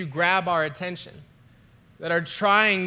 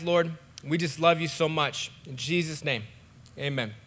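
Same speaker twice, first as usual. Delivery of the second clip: prayer. Acted. Pastor praying over the church at home, hushed and earnest.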